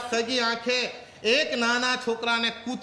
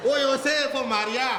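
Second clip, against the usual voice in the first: put-on crying child; 4 semitones higher than usual. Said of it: "રડતા રડતા કે".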